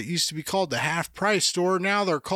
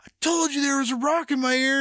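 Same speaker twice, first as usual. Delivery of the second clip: retold vindication; 6 semitones higher than usual. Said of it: "and I was like".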